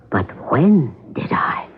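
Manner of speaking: a slow, pointed whisper to the captain. Real, not acted. Pointed reply to murder question.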